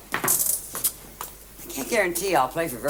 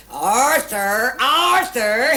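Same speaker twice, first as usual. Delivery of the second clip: retold shouting of a name, a touch louder and higher; mock shout; 6 semitones higher, 5 dB louder, much slower than usual. Wife retelling how she shouted for her husband, mild mock yell. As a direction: replay the restaurant shout at half strength. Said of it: "so I started to shout".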